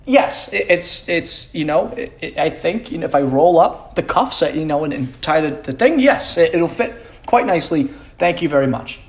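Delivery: mock a kid forcing thanks for a bad gift; hammed-up polite acceptance; forced polite thanks. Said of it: "the type of response I had to give".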